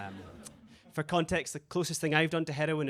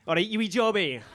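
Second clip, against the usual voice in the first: put-on kids in Scottish accent; 4 semitones higher, 4 dB louder than usual. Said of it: "fifty wee kids running around ... like".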